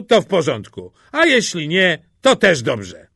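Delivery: loud, high, theatrical grumble; speaking loudly to be overheard. A narrator's reading. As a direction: complain out loud for an eavesdropper's benefit. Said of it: "powiedział głośno, żeby Kościelny usłyszał".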